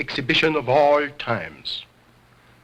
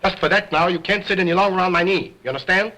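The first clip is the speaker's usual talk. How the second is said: fast, higher stern telling-off; stern punishment; 6 semitones higher, faster than usual. Acted. Ventriloquist bans Otto from his knee, stern telling-off. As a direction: lay down the punishment.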